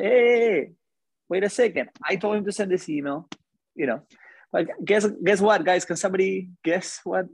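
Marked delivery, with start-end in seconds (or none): 0.0-3.3 imagined defense. Retold or imitated.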